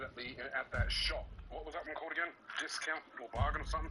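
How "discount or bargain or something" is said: fast talking. Real, not acted. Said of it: "speaking like an auctioneer".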